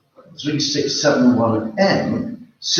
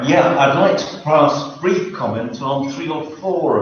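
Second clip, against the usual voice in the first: speaking up; 3 semitones higher than usual. Real, not acted. Resident repeating his comment after the chair's request, speaking up. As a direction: lift the voice slightly so the room can hear. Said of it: "could you speak up".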